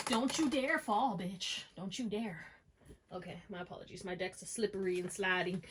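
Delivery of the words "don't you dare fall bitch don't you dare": gasp, then slow mock threat to a falling card; startled warning. Real, not acted. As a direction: warn the card half-joking. Card slipping from deck.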